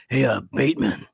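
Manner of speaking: a light take on Will Arnett saying Bateman; lightly voiced Will Arnett calling out; Will Arnett impression. Co-host riffs on Arrested Development, light Will Arnett. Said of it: "that's my Will Arnett".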